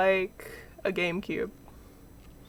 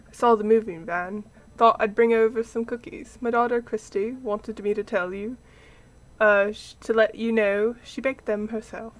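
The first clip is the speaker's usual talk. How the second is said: lightly put-on British neighbour; British accent; 3 dB louder than usual. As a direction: chat in an amateur British accent. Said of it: "he's getting a British accent".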